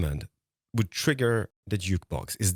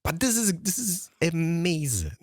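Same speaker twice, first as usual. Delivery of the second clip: higher, drawn-out amazement; amazed praise; 5 semitones higher, slower than usual. Real, not acted. Praising his friend's redstone build, drawn-out amazement. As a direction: stretch it out in wonder.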